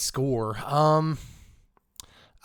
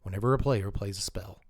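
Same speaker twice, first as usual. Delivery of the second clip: golf commentator voice; 3 semitones lower than usual. Acted. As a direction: murmur it like commentating a putt. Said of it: "I just can't keep up Golf Voice".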